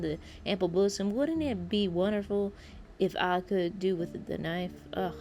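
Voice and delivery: hurried read in a put-on southern accent; southern-accented character reading. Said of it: "why I chose a southern accent".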